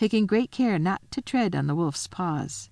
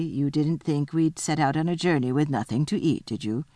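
unruffled, slightly lowered voice; coolly unbothered, dropping on the tag question; 3 semitones lower than usual. Acted. Missus Beaver answers Susan, coolly unruffled. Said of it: "said Missus Beaver very coolly".

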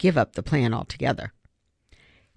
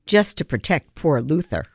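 poor Luther said flat and resentful, falling; bitter poor Luther. Acted. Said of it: "she raged".

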